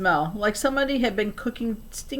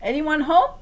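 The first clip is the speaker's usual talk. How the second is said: calling out; 8 semitones higher, 4 dB louder than usual. A narrator's reading. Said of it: "I called".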